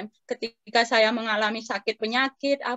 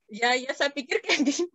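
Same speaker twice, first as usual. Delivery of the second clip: words breaking into a laugh; amused, laughing through the words; laughing agreement; 3 semitones higher than usual. Real, not acted. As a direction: agree while giggling. Amused agreement after the joke.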